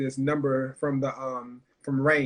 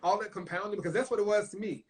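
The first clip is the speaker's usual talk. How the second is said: pouring out her struggles, higher and strained; raw emotion; 5 semitones higher than usual. Real, not acted. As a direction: voice pushed higher, close to tears.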